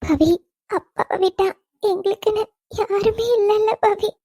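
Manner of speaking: tearful, halting confession of helplessness; crying. Acted. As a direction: let the words break up with sobs. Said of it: "கொஞ்ச நேரம் அழாம இரு". (அழுதபடி ஆதரவின்றி)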